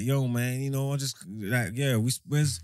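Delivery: lightly put-on American twang; hint of an American accent, playing the lost VIP; mock American accent. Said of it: "He's talking in an American accent".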